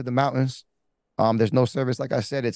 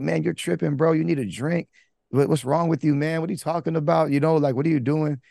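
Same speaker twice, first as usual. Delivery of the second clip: higher-pitched imitation of incredulous buddies; mock dismissive friends; 4 semitones higher than usual. Friends back at base doubting his story, lightly imitated disbelief. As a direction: brush him off like a disbelieving pal.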